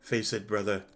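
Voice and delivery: lightly voiced grim warrior; Gabriel. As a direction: deliver the hard truth calmly. Plays Gabriel in the story.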